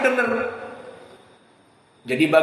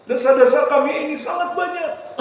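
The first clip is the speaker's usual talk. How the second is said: mild mock prayer; 4 semitones higher than usual. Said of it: "Adapun hanya sekedar".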